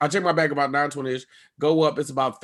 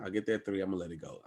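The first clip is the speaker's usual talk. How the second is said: much softer and lower; resigned mutter; 9 semitones lower, 15 dB quieter, faster than usual. Retold or imitated. Comic giving up on the agent, soft resigned. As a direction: let it go under your breath.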